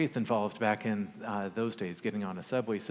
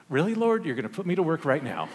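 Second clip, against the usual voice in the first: high, loud exasperated plea to the Lord; exasperated disbelief; 5 semitones higher, 6 dB louder, faster than usual. Retold or imitated. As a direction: throw it up to heaven in comic disbelief. Exasperated inner prayer to God.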